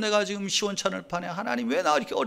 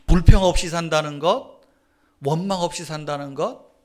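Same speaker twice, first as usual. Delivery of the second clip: usual speaking voice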